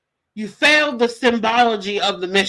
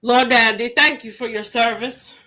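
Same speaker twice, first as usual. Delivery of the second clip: mock grateful thanks; 4 dB louder than usual. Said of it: "you're supposed to say".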